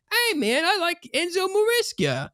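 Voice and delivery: high, big American "Hey, man, I like Enzo Maresca"; American accent. Shown as a demonstration. Host redoes his line in an American accent. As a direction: lay on a broad American twang. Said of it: "I should have said that more American".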